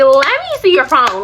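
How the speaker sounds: half-joking, like it's a game; playful demand. Retold or imitated. Girlfriend teasing boyfriend at the food court, playful. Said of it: "first time I was playing".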